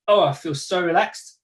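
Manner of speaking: tense body, say you're relaxed; curled up tight, claiming calm; hunched and tense, saying relaxed; mock relaxed. Shown as a demonstration. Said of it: "I want you to say to yourself".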